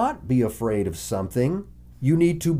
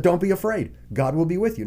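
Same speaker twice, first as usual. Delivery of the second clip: emphatic reassurance; 7 semitones higher, faster than usual. Acted. Quoting Moses.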